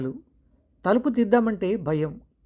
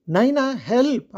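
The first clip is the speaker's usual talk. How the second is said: slow loud cry for help, pitched up; shout for help; 5 semitones higher, 4 dB louder, slower than usual. Acted. Frightened woman screaming for help as the figure reaches her. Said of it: "గట్టిగా అరిచింది".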